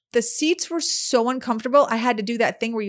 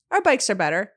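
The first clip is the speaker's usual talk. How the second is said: deadpan. Retold or imitated.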